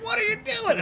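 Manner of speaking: high, loud cry of disbelief; alarmed mock shout. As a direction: yell it in horror at a friend. Teammate sees guards being silenced.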